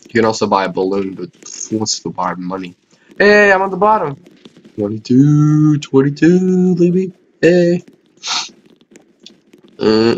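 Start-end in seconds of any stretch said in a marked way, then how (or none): 3.2-7.8 high, loud gleeful shout; excited cheer. Real, not acted. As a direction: cheer as if you just won. Cheering at own board rank.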